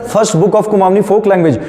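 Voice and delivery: slow, word by word dictation; dictating. Shown as a demonstration. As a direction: dictate slowly to the class. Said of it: "लिखना". (धीरे-धीरे बोलकर लिखवाना)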